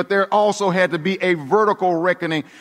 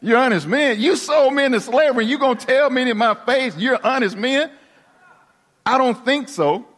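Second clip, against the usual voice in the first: accusing Joseph; 6 semitones higher than usual. Acted. Joseph confronting his lying brothers.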